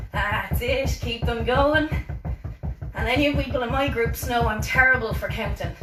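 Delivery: loud, driving fitness-class cues; pumping up a workout class; coaching call-outs over music. Real, not acted. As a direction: call it out over the music to keep them moving.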